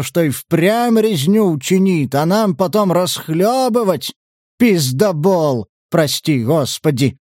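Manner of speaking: lightly acted indignant tirade with drawn-out emphasis; aggrieved prior. Foma's tirade appealing to Stas.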